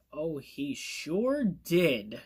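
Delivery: understated acted anger; pissed off, acted. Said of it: "And he's pissed".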